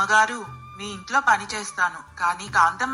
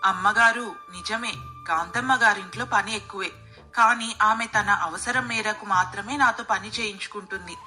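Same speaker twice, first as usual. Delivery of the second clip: calm, lower-pitched maid's voice; 3 semitones lower than usual. A narrator's reading. Maid explaining to employer why she feels different there, calm. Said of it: "ప్రశాంతంగా సమాధానం ఇచ్చింది".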